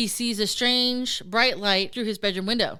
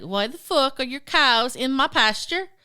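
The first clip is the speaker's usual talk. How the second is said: higher, indignant demand; mock irate neighbor; 4 semitones higher, 4 dB louder than usual. Neighbor phones Billy about stray cows, mock indignant. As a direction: play an annoyed neighbor demanding an explanation.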